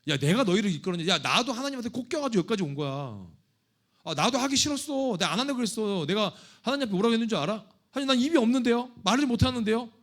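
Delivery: loud, high, exasperated outburst at the people; indignant Moses rant. Pretend. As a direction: vent like a leader fed up with complaints. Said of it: "제가 만약 모세라면요, 그랬을 것 같아요".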